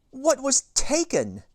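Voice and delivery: lightly voiced worried mom; Mom gasping. A narrator's reading. Reader voicing Mom to kids, mild gasp. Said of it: "gasped Mom".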